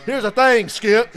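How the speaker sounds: imitating Skip. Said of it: "He said that".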